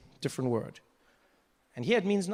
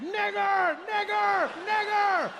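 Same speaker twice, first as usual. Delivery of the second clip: mock shouted greeting; much slower than usual. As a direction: call it out like a party greeting. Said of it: "just be like".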